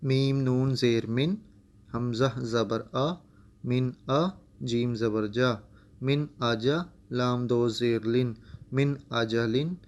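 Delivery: syllable-by-syllable qaida reading; spelled-out Quran reading. Shown as a demonstration. Teacher spelling out the word for the student. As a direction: spell each syllable, then join them. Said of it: "چلیے یہاں سے پڑھتے ہیں".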